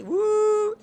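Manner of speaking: high, loud woo; high whoop of excitement; excited woo. Real, not acted. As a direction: cheer the move. Excited commentary.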